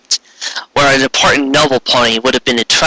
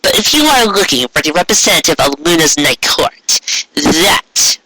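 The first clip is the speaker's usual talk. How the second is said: Trixie's voice; 2 semitones higher than usual. Acted. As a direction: measure each word before the queen. Trixie speaking.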